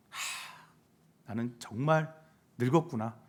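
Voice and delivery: a breathy sigh, then low, soft resignation; sighing lament. Acted. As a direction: sigh it out like someone feeling old. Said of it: "한숨을 여러분들께서 내쉬었다면". (한숨 쉬며 낮게 탄식하듯)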